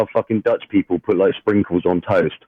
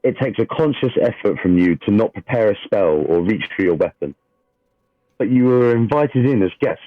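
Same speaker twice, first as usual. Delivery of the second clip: steady dramatic scene-setting read; game master narration. A narrator's reading. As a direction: read the opening like a storyteller at the table.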